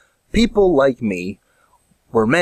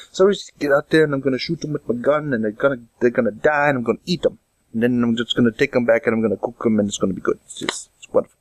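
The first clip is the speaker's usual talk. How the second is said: put-on Canadian-Jamaican accent; faster than usual. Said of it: "kind of Canadian Jamaican".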